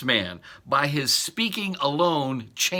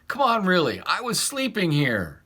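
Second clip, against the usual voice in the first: sleepy groggy Jesus; 5 semitones higher than usual. Pretend. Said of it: "in some sleepy, groggy voice".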